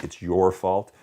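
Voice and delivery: "your" punched in blame; stress on "your". Shown as a demonstration. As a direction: hit the word "your", accusing. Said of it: "most effective of those three".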